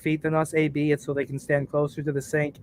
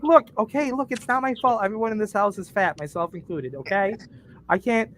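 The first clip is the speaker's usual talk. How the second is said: higher, rushed mock self-defense; pleading his case, pitched up; defensive protest; 5 semitones higher than usual. Defending himself to his wife, mock protest. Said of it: "I'm like".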